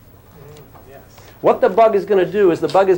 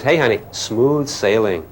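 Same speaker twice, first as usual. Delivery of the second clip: relaxed bug; 6 semitones lower, slower than usual. Acted. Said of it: "The bug says".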